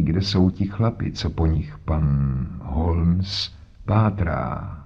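lightly voiced stubborn old man, slow; a hint of a cranky old sailor; old man set on his own way; grumpy old man. Narrator voices disguised old man.

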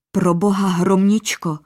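a sudden cry of dread; mild frightened outburst; horrified blurt. Acted. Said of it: "vyhrkl orlík král".

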